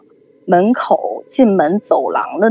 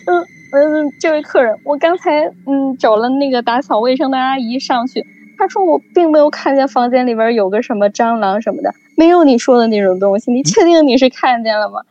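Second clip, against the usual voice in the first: higher, lightly voiced polite clerk; amused receptionist; 5 semitones higher than usual. Hotel clerk politely questions the panicked guest, lightly voiced. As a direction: play the front desk clerk, a touch higher. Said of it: "就说".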